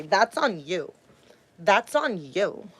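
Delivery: mock abuser brushing her off. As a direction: throw the blame back, mockingly. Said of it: "That's what all my abusers would say".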